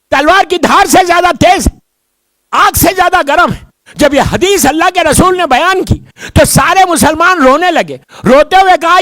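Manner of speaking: high, loud preaching voice; full preaching. Acted. Preacher stirring the congregation about the bridge, high and loud.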